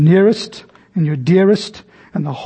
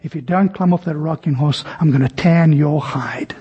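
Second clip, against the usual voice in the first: 1 stern father; 3 semitones lower than usual. Retold or imitated. Father threatens the boy.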